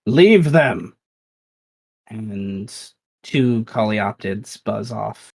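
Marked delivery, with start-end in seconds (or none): 0.1-1.0 higher, louder command; yelled order. Acted. Mel yells an order across the swamp, loud. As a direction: call it across the water. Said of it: "she yells and says".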